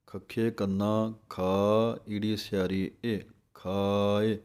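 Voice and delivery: ਖਾਏ built letter by letter, ਖਾ then ਏ; slow spelling of ਖਾਏ; ਅੱਖਰ ਜੋੜ ਕੇ; spelled out. Shown as a demonstration. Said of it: "ਸੋ ਇਹ ਢੰਗ ਹੈ ਬੋਲਣ ਦਾ।".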